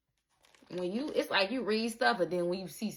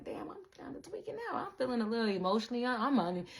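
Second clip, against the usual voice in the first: mock panic; 2 semitones higher, 3 dB quieter, faster than usual. They panic, acted inner voice.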